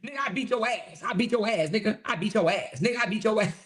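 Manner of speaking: hammed-up braggart taunting his rival; lightly voiced mock trash talk; mocking Kevin. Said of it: "He's like".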